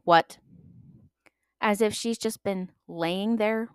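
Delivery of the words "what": louder snap-awake what; instant alert what. Retold or imitated. Mom woken by her child, loud alert what. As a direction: answer as if never asleep. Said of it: "she will go".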